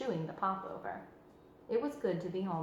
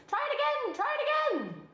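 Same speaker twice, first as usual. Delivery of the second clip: crying goose. A narrator's reading. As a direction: honk it out high and laughing. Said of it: "cried the goose".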